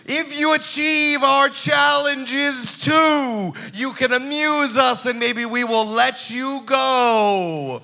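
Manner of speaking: slow, grand monster host; lightly voiced sea monster; kraken voice.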